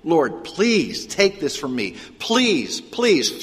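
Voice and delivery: begging. Retold or imitated. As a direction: voice Paul begging the Lord, climbing up. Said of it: "I begged the Lord".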